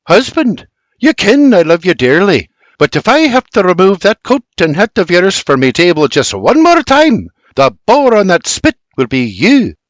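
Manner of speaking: high, firm scolding with a spike; mock-threaten the husband; scolding wife. A narrator's reading. Wife scolds husband over coat.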